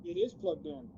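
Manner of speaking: distant, off-mic voice; talking away from the phone; far from mic. Real, not acted. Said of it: "It sounds like you're far away".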